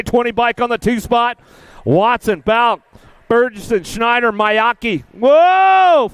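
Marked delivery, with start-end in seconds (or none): 5.1-6.1 2 sudden high startled whoa, louder; 3 react as a rider goes down in front of you; 1 surprised whoa. Real, not acted. 4 announcer sees a rider go down, startled whoa. Rider crashes during the race.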